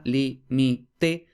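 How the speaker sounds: "li, mi, te" spaced out as separate syllables. Shown as a demonstration. Teacher splitting the word into syllables for students. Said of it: "la estructura de la palabra".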